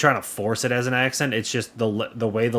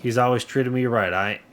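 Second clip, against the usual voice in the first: lightly southern character voice; light southern accent. Acted. Local declines to give up the bandit, light southern accent. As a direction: play it with a mild southern twang. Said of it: "that is my southern accent".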